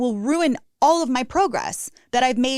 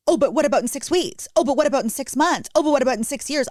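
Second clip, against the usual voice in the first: higher, fretful mock worrying; 4 semitones higher, faster than usual. Mocking her own future worries, fretful. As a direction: spiral into imitated anxiety. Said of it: "I'm not allowed to think about".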